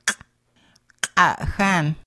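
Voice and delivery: "kahan" with a hard back k; hard glottal q. Shown as a demonstration. Teacher modelling glottal Q for learners, hard q. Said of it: "Glottal Q pronounced as a hard Q".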